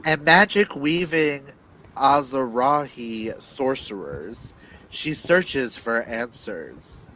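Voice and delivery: dramatic blurb reading with weighty pauses; dramatic telling. Acted. Reader performing the book synopsis aloud for listeners, dramatic. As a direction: read it like a movie trailer. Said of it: "you can't hear the reader's dramatic telling".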